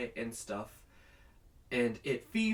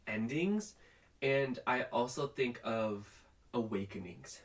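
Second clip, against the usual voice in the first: slightly out of breath; talking a bit winded. Real, not acted. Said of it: "Sorry, I'm, like, out of breath".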